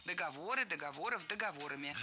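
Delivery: «Договоры, договоров, договорами», each stressed on ВО; stress on third syllable. Shown as a demonstration. Teacher runs through the declension, stress held on ВО. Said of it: "сохраняем на третьем слоге".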